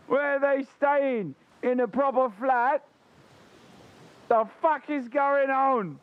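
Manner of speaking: a streamer imitating the racist lady panicking at the real figure, mock outrage; mock outraged racist lady. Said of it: "if you were to tell her the truth".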